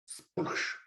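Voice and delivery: soft hushed sploosh noise; imitated splash. Player describing a water rescue, imitated splash. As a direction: make an airy water-splash sound effect.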